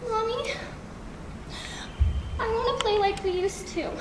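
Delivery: put-on suddenly soft, childlike appeal; small coaxing plea. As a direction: coax mother softly after the outburst. Child turns to coaxing mother.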